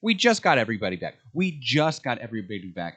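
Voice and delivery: exasperated viewer's retold outburst; retold yelling at TV. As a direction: protest at the screen, half-yelled. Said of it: "I was screaming at the T V".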